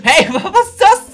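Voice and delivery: surprised shout. Real, not acted. More snowballs from neighbours.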